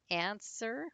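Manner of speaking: answer, first syllable picked out for learners; stress on first syllable. Shown as a demonstration. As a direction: answer with the weight on an-. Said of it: "stress is on the an".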